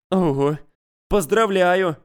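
bright, high, happy praise; cheerful congratulation. Acted. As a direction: congratulate him smiling. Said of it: "улыбнулась девушка".

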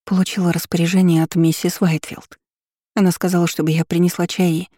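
put-on earnest, anxious servant girl; flustered maid. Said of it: "горячо уверила служанка". (взволнованная служанка)

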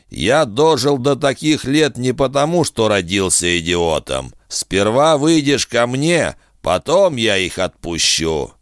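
a hint of a smug bargaining villain; sly bounty hunter. Kusaka voiced in narration.

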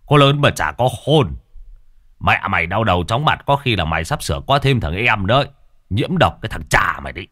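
coarse father, half scolding half laughing; rough dad mocking his son's logic; father teasing his son, coarse and mocking; teasing gruff father.

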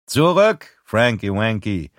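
sharp armed shout; shouted threat. Acted. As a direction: yell him back with the gun drawn. Robber threatens with revolver.

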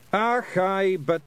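high, loud Scottish protest; Rob Anybody. Acted. Pixie leader starting to argue, high Scots. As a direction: object in Scots, then break off.

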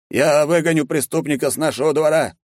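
put-on old guard driving off a criminal; old servant. A narrator's reading. Old servant threatens intruder. (старый слуга, грозно)

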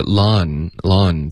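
LAWN slow, with a wide-open vowel. Shown as a demonstration. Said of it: "嘴巴再张开大一点". (“lawn”嘴巴张大慢读)

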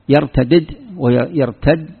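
slow contrast of يرتدد and يرتد; يرتدد with both dals split, then يرتد merged, slowly; two forms. Shown as a demonstration. Teacher contrasting the two forms of the verb, slowly. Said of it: "يذكرون يقولون مثلًا".

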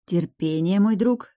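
usual speaking voice

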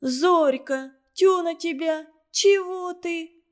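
put-on high, slow girl's voice; Галка to upset Зорька, high and puzzled; girl asking. A narrator's reading. Галка asks Зорька, high and puzzled. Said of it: "спросила Галка".

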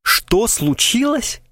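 milk it like a tragic actor; pathetic exclamation. A narrator's reading. Krysakov mocking Krasilnikov, hammed-up pathetic exclamation. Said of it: "патетически воскликнул он".

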